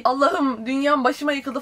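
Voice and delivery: drawn-out mock lament; mock drama queen. Vlogger mimics a book character's sudden meltdown, mock drama queen. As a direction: imitate a drama queen, mildly hammed-up. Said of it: "drama queenliğe bağlayıp".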